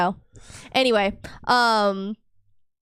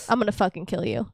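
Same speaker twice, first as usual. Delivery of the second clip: softer, understated mock menace; deadpan threat; 2 semitones lower, 5 dB quieter, faster than usual. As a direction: play a quiet death threat for laughs. Acts War Devil's threat after collision.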